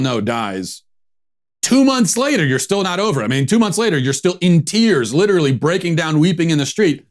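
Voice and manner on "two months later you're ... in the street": incredulous. Real, not acted. Incredulous rant at the protester.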